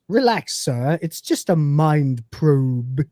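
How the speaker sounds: a light copy of the robot butler's slow, drawn-out line; imitating Crichton's inflection. Podcaster quoting the robot Crichton, lightly imitated. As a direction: mimic Crichton, dragging out mind probe. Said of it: "which he says in that exact inflection".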